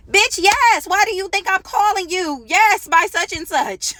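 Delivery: shrill high disbelief, way up in pitch; exasperated. Retold or imitated. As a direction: throw it back at her, fed up. Exasperated retort to the mom.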